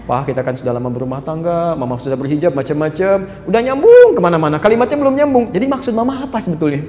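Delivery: a hint of a rambling wife, going round in circles. Preacher imitates a wife rambling at her husband, lightly voiced. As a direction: lightly voice a wife who never gets to the point. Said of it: "Apa sih maksudnya, mah?".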